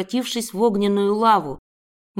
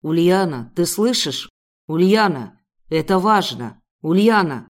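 низкий громкий мужской голос, зовёт по имени; позови её настойчиво, низко и громко; настойчивый мужской зов; 3 semitones lower, 4 dB louder than usual. A narrator's reading. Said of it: "настойчиво звал меня по имени". (настойчиво зовёт Ульяну низким мужским голосом)

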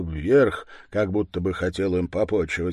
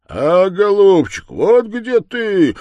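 triumphant cry; 10 semitones higher, 10 dB louder than usual. Acted. Grandpa finds the pot and cries out in triumph. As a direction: crow over the found treasure. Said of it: "вскрикнул дед".

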